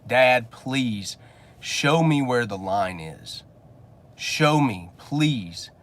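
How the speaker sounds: a hint of a son begging his father; lightly voiced pleading boy; mock begging son. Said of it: "He's begging".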